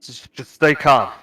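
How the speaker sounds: put-on calm line in Ket's accent, haltingly started. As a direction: voice Duke in Ket's accent by mistake. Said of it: "He doesn't say it in that accent, 'cause that's Ket".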